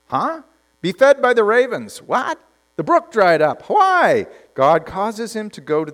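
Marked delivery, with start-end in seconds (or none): 0.1-4.3 rising, higher, incredulous questions; baffled prophet. Acted. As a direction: jump up on "Why?" in disbelief. Prophet's baffled replies to God.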